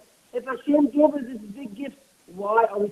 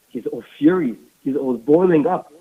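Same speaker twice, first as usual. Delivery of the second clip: building anger; 7 semitones lower, 5 dB louder than usual. A narrator's reading. Narrating growing anger.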